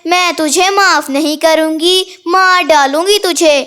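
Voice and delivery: lightly voiced vengeful ghost mother; mildly spooky, menacing warning; pretend ghost. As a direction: threaten like a ghost, drawing out the name. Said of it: "कालू कौवे को डराने जाती है".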